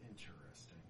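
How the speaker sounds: a hushed, low note of interest; intrigued figure. Acted. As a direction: murmur it low like a curious spirit. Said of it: "notices, he goes".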